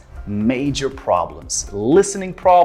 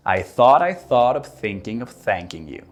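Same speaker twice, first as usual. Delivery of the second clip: tongue twister; 3 semitones lower than usual. Shown as a demonstration. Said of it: "repeat after me".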